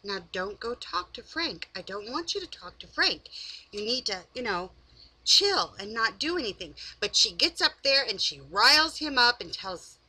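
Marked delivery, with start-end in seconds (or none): 0.0-6.8 hushed, soft advice to stay calm; soft coaxing. Retold or imitated. Brittany telling Willie to stay calm, soft and hushed. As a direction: quietly talk him down. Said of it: "And then she says".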